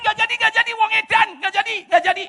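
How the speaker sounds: high, excited backing out; a hint of panicked girlfriend refusing; mock refusal. Girlfriend calling off the relationship, lightly voiced. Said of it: "Dia bilang".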